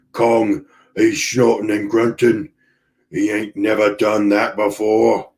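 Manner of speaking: a lightly voiced rough sailor's accent, panting; the cook bursting in, half out of breath, in a mild put-on accent; Lumpy's rough accent. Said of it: "accent, whatever accent that is".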